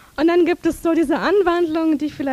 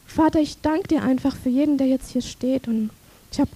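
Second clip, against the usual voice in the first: prayer. Real, not acted. Leads prayer over music.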